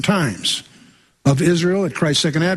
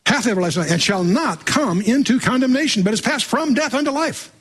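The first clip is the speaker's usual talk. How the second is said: Bible verse climbing higher in pitch; emphatic scripture reading; 8 semitones higher than usual. Acted. Preacher reassures congregation from John, emphatic scripture reading. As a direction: proclaim the verse, pitch rising to the end.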